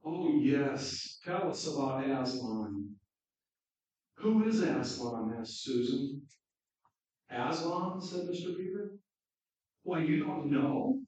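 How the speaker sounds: lively read-aloud of Narnia; story reading. A narrator's reading. Preacher reading Narnia to the congregation, lively storytelling. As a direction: read the children's story with animated voices.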